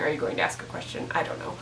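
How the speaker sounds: fast, soft whisper. Shown as a demonstration. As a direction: breathe it quickly under your breath. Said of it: "I don't know why I was saying".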